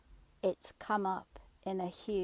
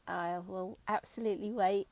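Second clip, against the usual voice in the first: usual speaking voice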